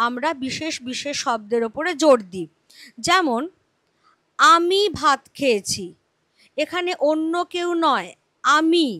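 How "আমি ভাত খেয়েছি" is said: আমি said with extra weight at the start; stress on আমি. Shown as a demonstration. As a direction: lean on the word আমি, the rest light. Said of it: "এটার ওপর জোর পড়েছে".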